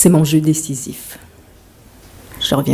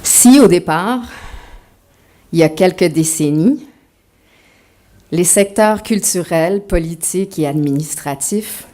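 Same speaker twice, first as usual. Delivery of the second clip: lightly put-on Québécois accent. Shown as a demonstration. Author trying her Québécois accent for the audience, lightly. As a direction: read it with a hint of Québécois. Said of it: "Je vais essayer l'accent québécois".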